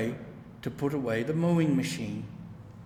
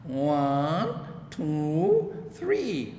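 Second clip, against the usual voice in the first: counting on fingers; much slower than usual. A narrator's reading. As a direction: tick them off on your fingers. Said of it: "counting on his fingers".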